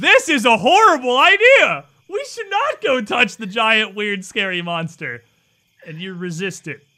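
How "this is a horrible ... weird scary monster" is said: very loud, frantic, alarmed screaming. Voicing the thought at the back of a player's mind: screaming in alarm. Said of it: "just screaming".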